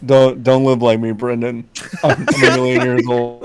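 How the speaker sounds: low, deadpan impression; lightly put-on voice of an immortal dude; H. John Benjamin. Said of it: "He just sounds like H".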